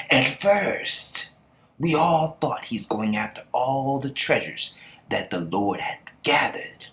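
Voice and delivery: lightly voiced anime narrator, slow and solemn; the dude's narration voice. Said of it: "I'm gonna use the dude's voice".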